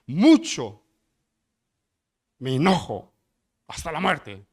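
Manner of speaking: angry outburst. Acted. Jonah's angry reply voiced.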